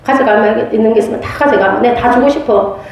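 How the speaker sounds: rushed, tumbling offer; quick, breathless retold quote; fast retelling. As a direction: rattle off the monk's offer quickly. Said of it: "이렇게 했어요".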